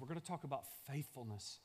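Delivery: ordinary talk, nothing marked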